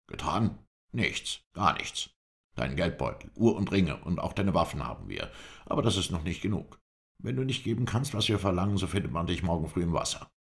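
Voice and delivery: menacing robber. A narrator's reading. Robber threatens captive.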